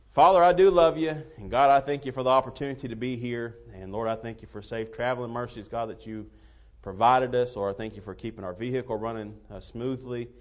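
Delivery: prayer. Real, not acted. Pastor leads opening prayer.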